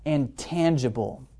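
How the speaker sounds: "tangible" stretched out slowly with weight; emphasis on tangible. Shown as a demonstration. Presenter to webinar audience, slow stressed "tangible". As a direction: lean on "tangible", slow and deliberate. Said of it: "I'm emphasizing the word tangible".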